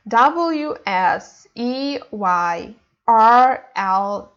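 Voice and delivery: W S E Y R L spelled out slowly; name each letter separately, W S E Y R L. Shown as a demonstration. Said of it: "we read letter by letter".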